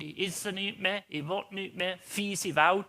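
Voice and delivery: lightly voiced sulking king; sulking like a little child. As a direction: whine it half-heartedly like a kid refusing dinner. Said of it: "wie ein kleines Kind".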